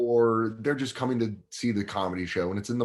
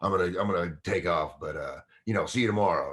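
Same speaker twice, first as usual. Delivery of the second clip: lightly voiced club owner, lower; Craig Glazer impression; 4 semitones lower than usual. Club owner excuses himself to the comic, lightly imitated. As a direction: toss it off low, like the club owner. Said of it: "that's completely how he talked".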